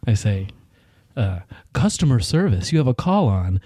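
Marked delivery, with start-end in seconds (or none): 1.7-3.6 store PA page; intercom announcement voice. Shown as a demonstration. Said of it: "my intercom voice".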